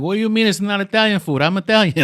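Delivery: loud, high, outraged protest; indignant Italian man. Retold or imitated. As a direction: play the offended Italian insisting he's from Italy. Italian man protesting in retold story.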